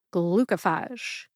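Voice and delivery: "Glucophage" slowly as GLU-kuh-fahzh; schwa middle syllable. Shown as a demonstration. Pharmacist showing the schwa, slow "Glucophage" with "kuh" middle. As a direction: reduce the O in "Glucophage" to "uh". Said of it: "The O becomes a schwa O sound".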